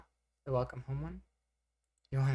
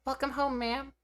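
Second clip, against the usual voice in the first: much higher, with a raised larynx; voice training femme voice; 12 semitones higher than usual. Shown as a demonstration. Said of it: "That might be a little better".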